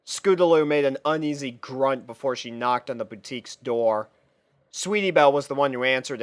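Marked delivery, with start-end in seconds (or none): none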